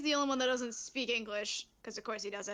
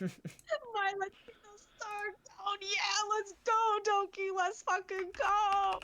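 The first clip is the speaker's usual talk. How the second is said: put-on higher, slow, over-the-top Spanish accent; hammed-up Spanish accent; 8 semitones higher, slower than usual. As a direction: camp it up like a Spanish-accented dub hero. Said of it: "the really Spanish voice".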